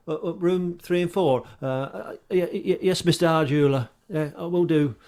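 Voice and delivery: put-on stammering boy. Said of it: "And the boy says".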